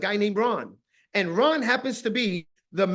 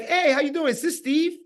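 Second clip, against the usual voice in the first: higher, upbeat caller's greeting; acted phone greeting; 6 semitones higher than usual. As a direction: open a phone call, lifting into the question. Acting out cold phone call.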